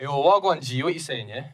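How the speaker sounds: London roadman slang voice; london roadman accent. Shown as a demonstration. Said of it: "do you wanna do it right now".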